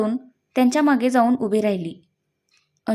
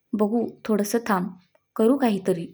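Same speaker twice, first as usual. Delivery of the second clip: softer, calming reassurance; reassuring; 2 semitones lower, 4 dB quieter than usual. Acted. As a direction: gently soothe a frightened friend. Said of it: "ती धीर देत म्हणाली". (धीर देणारा हळुवार आवाज)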